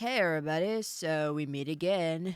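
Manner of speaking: put-on drawling like a Valley girl. Asked for their best Romy voice, speaker gives a line in Romy voice. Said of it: "can you do your best Romy voice?".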